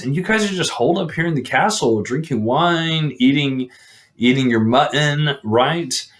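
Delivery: lightly mock the lazy knights; mocking taunt. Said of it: "he starts to mock them".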